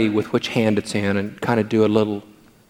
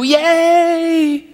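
put-on excited little boy; much slower than usual. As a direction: squeal like a three-year-old cheering Grandpa. Kids cheering when found.

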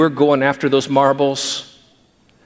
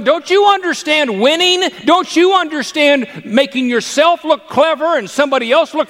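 exasperated grandpa; 12 semitones higher than usual. Retold or imitated.

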